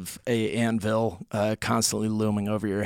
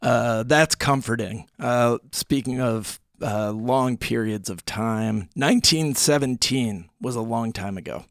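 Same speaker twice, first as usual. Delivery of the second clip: forced radio energy. Acted. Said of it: "Your voice, Jack".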